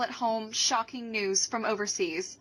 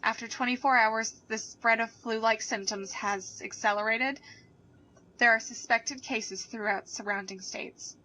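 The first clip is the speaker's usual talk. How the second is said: steady radio news read; news anchor. Acted.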